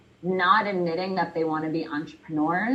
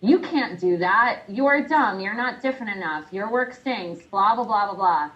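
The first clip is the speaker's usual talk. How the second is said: lightly voiced vampire voice in the head; a hint of a scolding inner voice; nagging inner critic; 2 semitones higher, 3 dB louder than usual. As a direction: punch out each put-down as the inner critic. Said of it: "that vampire voice in your head saying".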